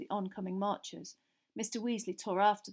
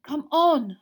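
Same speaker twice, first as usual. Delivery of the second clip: loud, higher; insistent; 6 semitones higher, 14 dB louder than usual. A narrator's reading. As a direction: insist firmly. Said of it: "Hermione repeated".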